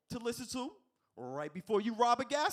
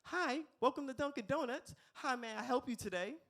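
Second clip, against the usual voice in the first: intercom worker; 6 semitones higher than usual. Retold or imitated. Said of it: "the person that came out the intercom was like".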